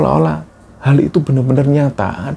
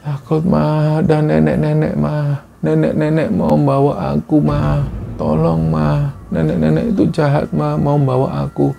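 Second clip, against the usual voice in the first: lightly voiced frightened child, higher; delirious child; 4 semitones higher, slower than usual. Feverish child tells mother about the old woman, lightly voiced, higher. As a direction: plead like a feverish child in a nightmare. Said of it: "mengigau seperti itu".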